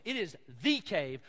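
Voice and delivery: "the" said as a long, punched THEE; stress on THE. Shown as a demonstration. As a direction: lean hard on the word "the". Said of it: "The Hebrew there is not a cave".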